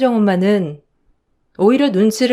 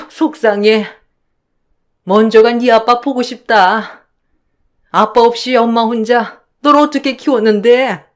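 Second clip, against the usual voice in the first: hurt, whining older woman, lightly voiced; lamenting how she raised him alone; self-pitying mother-in-law; 3 dB louder than usual. Mother-in-law wailing at her son, mild self-pity.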